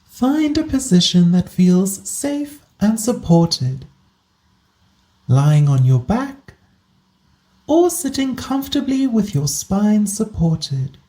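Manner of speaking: calm guided body scan, unhurried with long pauses; guided meditation. Acted. Host guiding listeners into a body scan, calm meditation voice. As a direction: ease the listener into position, leaving space between phrases.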